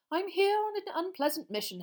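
high, solemn official; weighty and regretful; grave Fudge. Acted. Minister telling the boy his grim errand, solemn.

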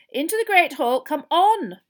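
loud, high call to a crowd; shepherd them in impatiently; sharp command. Acted. Teacher sending wet pupils into the hall, sharply. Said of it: "said Professor McGonagall sharply".

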